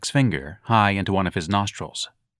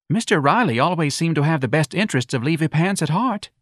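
sadly; 7 semitones higher than usual. A narrator's reading. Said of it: "said sadly".

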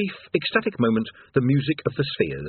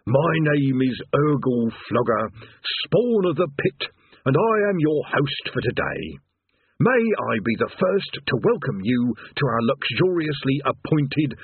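recited script; 4 semitones higher than usual. Acted. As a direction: drone the welcome like forced customer service. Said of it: "had the script patiently explained".

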